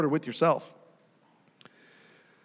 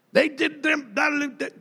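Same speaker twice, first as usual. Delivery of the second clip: mock venting; 9 semitones higher, slower than usual. Mocking someone venting their grievance.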